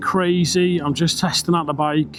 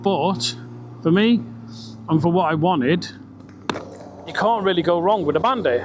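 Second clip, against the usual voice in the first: inside a helmet. Real, not acted. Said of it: "I had to open my visor a little".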